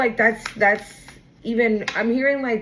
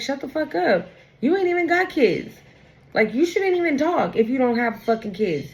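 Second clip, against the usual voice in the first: higher, indignant clap-back; mock angry retort; 4 semitones higher than usual. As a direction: snap back at the accuser. Acted retort to insulting person.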